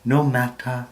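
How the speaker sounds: measured, declamatory verse reading with swells on key phrases; theatrical poetry reading, pausing between phrases; poem recitation. Acted. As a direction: recite it like stage verse, leaning into the stressed words.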